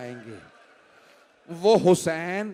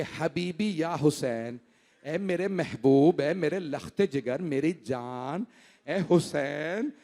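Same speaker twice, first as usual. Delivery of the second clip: tender endearment; 4 semitones lower, 3 dB quieter, slower than usual. Acted. Grandfather tenderly embraces Hussain.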